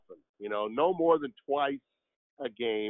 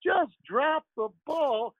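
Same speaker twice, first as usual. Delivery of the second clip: Harry Caray impression; 8 semitones higher than usual. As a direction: do the old Cubs announcer, hamming it up. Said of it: "that's a little bit of Harry there for you".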